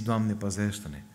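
slow, heartfelt plea to God; preacher models a sincere prayer, slowly; slow earnest prayer. Shown as a demonstration. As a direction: pray it slowly, meaning every word.

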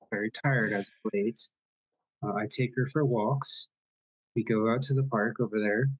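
put-on light Irish nanny accent; a hint of a brogue as the nanny. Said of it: "You guys enjoy my terrible Irish accent?".

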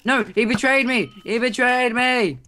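high, indignant wail; outraged cry. Real, not acted. Gamer turned on by his teammate, high outraged cry.

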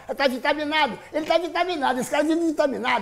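high hyped-up praise; excited. Real, not acted. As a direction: pump him up. Hyping the friend.

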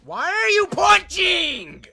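exasperated yell. Real, not acted. Gamer yells at teammate.

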